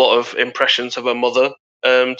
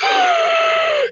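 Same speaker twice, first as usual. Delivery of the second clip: sharp gasp. Real, not acted. Guys reacting to the gimmick, a sharp gasp. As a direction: gasp out in shock.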